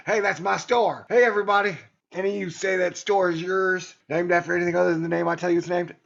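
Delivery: loud, bossy claim over a crowd; mock bragging. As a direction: announce it to everybody, puffed up. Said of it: "I should go around and be like".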